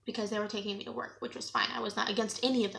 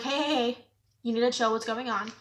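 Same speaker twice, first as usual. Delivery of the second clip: calling out; 3 dB louder than usual. Retold or imitated. Group calls out at dog-thrower.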